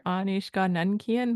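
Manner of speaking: neutral, slightly formal question; measured, matter-of-fact delivery. Shown as a demonstration. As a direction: ask it plainly and properly. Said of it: "It's a little bit more formal".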